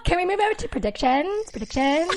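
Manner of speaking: high-pitched mock Valley Girl accent with questioning rises; badly faked Valley Girl that could pass for British. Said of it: "I was doing a Valley Girl".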